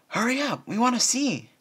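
put-on very high, loud, bouncing child voice; impatient filly. Scootaloo bouncing up and down, squealing very high and loud. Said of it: "bouncing up and down".

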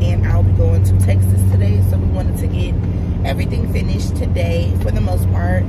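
just-woke-up voice; groggy morning voice, still rough. Real, not acted. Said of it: "Excuse my morning voice".

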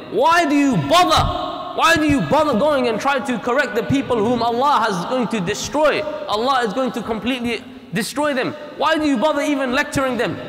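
scoffing disbelief. Retold or imitated. Silent group mocks the warners.

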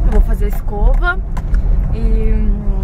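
talking around a candy; words round a sweet in the mouth; sucking a hard candy. Real, not acted. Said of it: "tô com uma bala na boca". (falando com bala na boca)

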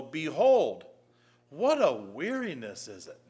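measured pulpit reading of the King James text; scripture reading. Acted. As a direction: proclaim the verses like the Lord speaking. Reads Malachi chapter one aloud.

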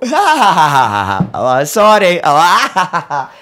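loud burst of acted laughter; helpless laughter. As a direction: crack up, squeezing out an apology. Acting out breaking into laughter.

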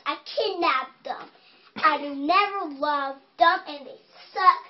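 lightly voiced mean witch; a child playing a mean witch. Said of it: "You about to be the mean witch".

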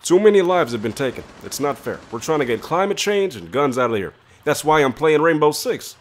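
switching impression voices; steady Barack Obama impression. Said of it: "Wait, are you Obama?".

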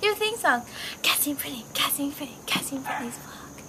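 squeaky high theme song chant; sing-song high cartoon voice; helium voice. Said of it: "We did a little helium voice".

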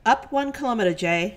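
loud, electronically altered voice over the intercom; robot speaking through a ship's speaker; voice changer. Acted. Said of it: "let me just get my voice changer".

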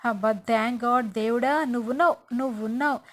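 mock ecstatic thanking of God; joyful relief. Husband thrilled his wife seeks his blessing, hammed-up joy. Husband overjoyed at wife's gesture.

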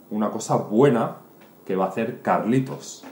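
ordinary talk

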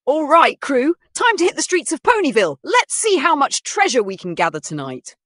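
high, loud rallying captain; rally the crew like a pirate. Acted.

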